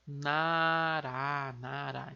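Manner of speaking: "nará" com R de uma só batida, não "narra"; R simples entre vogais em "nará"; coreano nara. Shown as a demonstration. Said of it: "Então". (pronúncia coreana de "nará", R simples)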